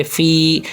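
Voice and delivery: فی drawn out slowly; stretched long i. Shown as a demonstration. Teacher stretching the long ی slowly. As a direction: hold the ی in فی. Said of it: "یا مدہ کو تھوڑا کھینچے".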